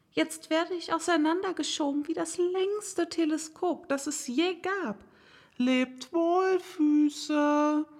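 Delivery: put-on young Alice amazed as she stretches; astonished little girl.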